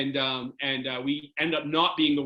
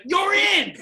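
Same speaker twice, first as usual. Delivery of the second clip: high, loud, laughing nudge; excited urging; 6 dB louder than usual. Retold or imitated. Trainer laughing as he tells the goalie he's in, high and loud. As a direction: push him out the door with a laugh.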